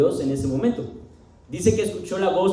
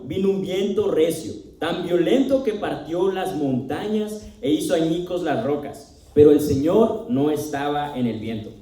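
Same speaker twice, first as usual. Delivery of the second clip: measured, deliberate Bible reading with pauses; scripture reading. Acted. Preacher reads Elijah's passage to the congregation, measured scripture reading. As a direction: read scripture aloud, landing firmly on phrase openings.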